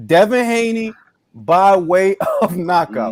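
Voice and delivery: slowed, laughing as he reads the pick; can't keep a straight face; a laugh breaks in while reading the pick; laughing through it. Real, not acted.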